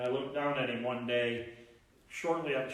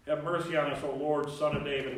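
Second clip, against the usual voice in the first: louder cry for mercy; 3 semitones higher, 6 dB louder than usual. Shown as a demonstration. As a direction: call out to be heard.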